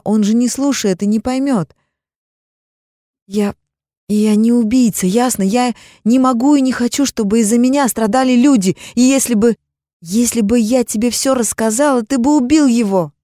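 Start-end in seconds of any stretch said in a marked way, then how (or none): 3.3-13.1 high, loud desperate protest; wife shouts her innocence at husband; desperate outburst. Acted. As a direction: fight back, pleading at full voice.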